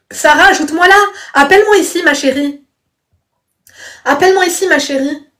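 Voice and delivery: high-pitched insistent call. Real, not acted. Streamer urging Sarah to add and call her, high calling out.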